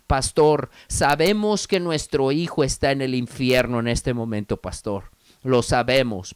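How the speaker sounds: retold tearful plea. Parents pleading with the pastor about their dead son, understated sorrow. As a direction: plead softly, a touch of sorrow, without crying. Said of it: "dijeron los padres con lágrimas en sus ojos".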